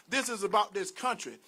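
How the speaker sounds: usual speaking voice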